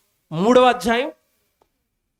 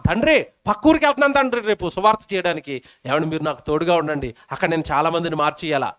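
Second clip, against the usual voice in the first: sincere prayer; 3 semitones lower, faster than usual. Pretend. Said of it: "prayer example".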